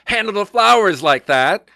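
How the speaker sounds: high, slow mock scolding; retold yelling florist. Florist scolding the photographer over flowers, high slow mock yell. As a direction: imitate the florist snapping at you. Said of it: "yells at me".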